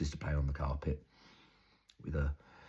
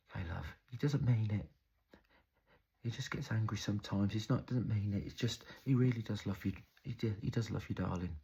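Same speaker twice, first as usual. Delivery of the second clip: comforting mum; 6 semitones higher than usual. Retold or imitated. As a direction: soothe your child while covering for him. Battered mum excusing the father.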